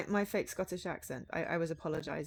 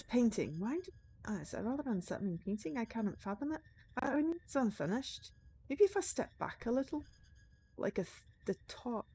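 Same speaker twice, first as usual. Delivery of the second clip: softer storytelling read than the chat; in-character game narration; 2 semitones higher, 4 dB quieter than usual. Acted. Writer examining an unsettling painting, in-character narration.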